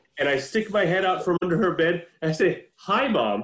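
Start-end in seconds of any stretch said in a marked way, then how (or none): 2.8-3.5 mock sugary, sweet, innocent voice. Retelling surprising a frightened mother from under the bed: imitating own sweet innocent voice. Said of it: "all sweetly and innocently".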